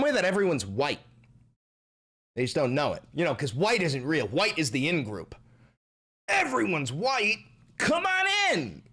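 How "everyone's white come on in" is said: high, exaggerated invitation; mock welcome. Streamer inviting everyone into the in-group, high mock welcome. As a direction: sing it out high, ushering everyone in.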